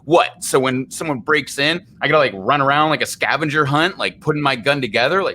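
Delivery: mock-exasperated homeowner, pitch climbing high; Bill Burr. Retelling a bit about hunting for gun parts, mock exasperation building. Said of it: "he's like".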